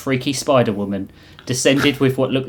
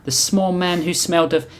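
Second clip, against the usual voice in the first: put-on higher-pitched, loosely Russian accent; vaguely Russian accent; 6 semitones higher than usual. The Reap questions who sent them, higher Russian accent. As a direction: ask it in a raised voice with a Russian accent. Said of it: "thick veil accent that was vaguely Russian".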